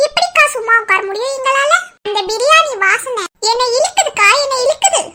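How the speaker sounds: playful craving. Acted. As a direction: plead as if the aroma is pulling you in. Hammed-up craving for the biryani. (விளையாட்டான ஏக்கம்)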